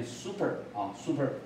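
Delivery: American "super" with a clean s, "SOO-per"; American model of "super", plain "soo" start; American pronunciation. Shown as a demonstration. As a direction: say "super" American-style, no sh sound. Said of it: "美国人是念".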